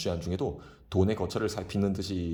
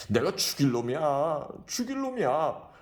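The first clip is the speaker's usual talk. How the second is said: slow, rising wailing cry; 7 semitones higher, slower than usual. A narrator's reading. Drunk Kim wailing over his dead wife. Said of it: "엉엉 소리 내어온다".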